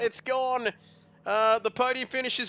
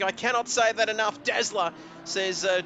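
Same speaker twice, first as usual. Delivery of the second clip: ordinary talk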